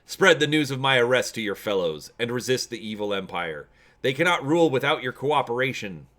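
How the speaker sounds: rallying call. Acted. Orator rallies the prospectors.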